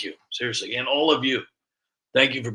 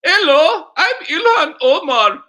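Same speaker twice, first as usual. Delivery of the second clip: louder put-on accented greeting; louder mock politician greeting; impression; 10 dB louder, slower than usual. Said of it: "let me try that again".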